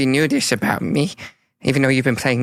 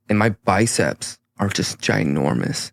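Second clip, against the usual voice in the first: deep macho hero; 7 semitones lower than usual. Acted. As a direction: boast like a bodybuilder. Smoggle powered up, confident.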